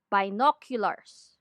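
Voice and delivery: "binoculars" slow and low, Filipino style; Filipino mispronunciation. Shown as a demonstration. Teacher lists commonly mispronounced words, slow Filipino-style "binoculars". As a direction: say "binoculars" with deliberate Tagalog English sounds. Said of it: "commonly mispronounced words".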